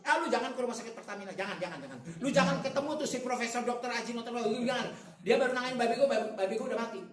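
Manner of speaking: loud, high, hammed-up outraged complaint; agitated warning. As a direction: warn them off as if badly let down. Acted relative warns against the hospital. (peringatan kesal yang didramatisir)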